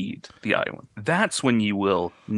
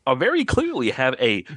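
changing shapeshifter voice; 3 semitones higher than usual. Acted. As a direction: slide up and down like a bad dub. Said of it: "his voice is, like, changing".

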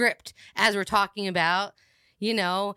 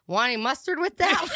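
server voice; 6 semitones higher than usual. Retold or imitated. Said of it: "a server at a restaurant".

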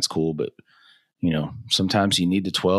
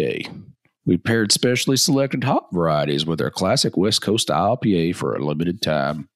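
Western accent. Shown as a demonstration. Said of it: "Should I try that in a Western accent?".

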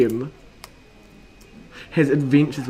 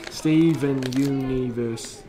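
meme review announcer; much slower than usual. Pretend. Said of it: "Doing meme review style".

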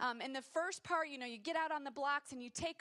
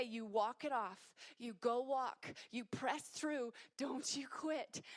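coach's gentle urging; 3 semitones lower, 3 dB quieter, slower than usual. Retold or imitated. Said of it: "he would say".

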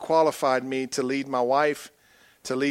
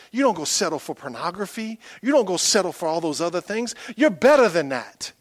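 speaking blessing over son; 3 semitones higher than usual. Retold or imitated. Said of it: "I was prophesying to him".

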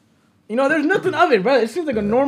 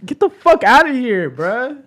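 loud, raised mock outrage; louder, imitating a fed-up worker; retold angry dismissal; 3 semitones higher, 6 dB louder, slower than usual. Worker cusses out flashing customer, retold angry dismissal.

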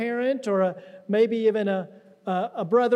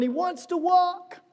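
incredulous friends; 7 semitones higher, slower than usual. Retold or imitated. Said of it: "They're going".

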